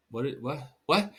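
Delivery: baffled repeated what, rising; acting stunned by a bad apology; incredulous what. Answering a partner's non-apology with disbelief.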